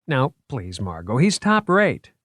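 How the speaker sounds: proud museum man showing off his finds; eager curator voice. Acted. Character voice.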